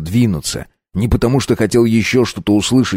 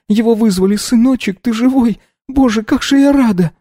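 higher, trembling mother voice through tears; tearful mother; 12 semitones higher than usual. A narrator's reading. Mother tells son of the crash news, weeping. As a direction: sob out the news to your son. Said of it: "а мама вся в слезах".

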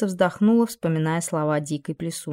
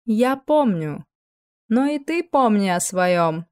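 slow, higher, sharp retort; sharp reply; 4 semitones higher, 3 dB louder, slower than usual. Acted. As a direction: answer sharply, stressing ты. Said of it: "последовал резкий ответ".

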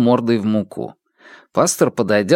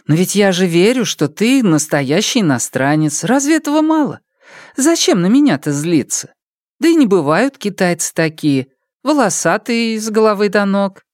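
higher, coaxing mother's voice; consoling mother; 9 semitones higher than usual. Acted. Mother reassuring the pastor she believes him, higher and coaxing. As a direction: soothe him like a fond village woman.

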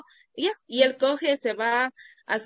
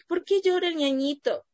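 son's voice; 6 semitones higher than usual. Retold or imitated. Son voiced asking.

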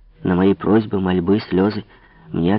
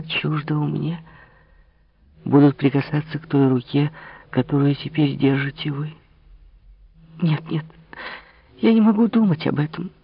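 put-on higher, anguished young woman's voice; Marie despairing; 5 semitones higher than usual. Marie despairs before the king, high anguish. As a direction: let despair rise, lightly voiced.

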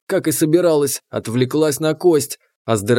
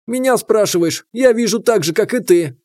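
irritated; 6 semitones higher than usual. Acted. Irritated retort in battle.

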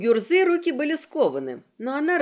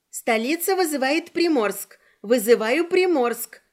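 put-on irritated girl calling; 2 semitones higher than usual. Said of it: "раздражённо звучал ... девичий голос".

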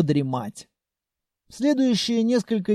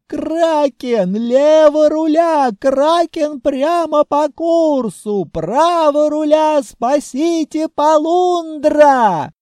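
much higher, very loud, slow panicked shrieks; panicked screaming; 9 semitones higher, 8 dB louder, much slower than usual. Acted. Groom shrieking in terror at the kraken, panicked. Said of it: "заорал жених на три октавы выше".

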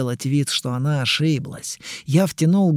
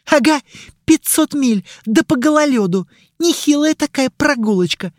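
sarcastic; 11 semitones higher, 4 dB louder than usual. Acted. Mari sarcastic, angry quarrel.

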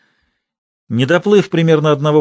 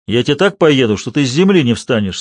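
stern. Acted. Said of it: "сурово сказал Порфирий Игнатьич".

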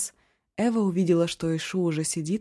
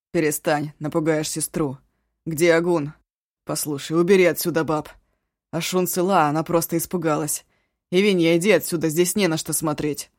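раздражённый; 5 dB louder than usual. Acted. Раненый гонит всех прочь.

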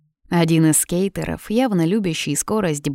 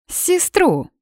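very high incredulous cry of сестру; 13 semitones higher than usual. Acted. Blonde doubting the brother, incredulous shriek.

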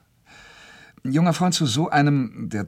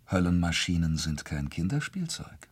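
hushed warning; 4 semitones lower than usual. Acted. Secret bomb talk, hushed.

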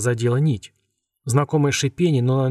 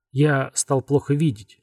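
slow wheezing whistle; whistling s; slower than usual. Acted. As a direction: whistle the s sounds, slowly. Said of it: "свистящим голосом произнёс Аманит".

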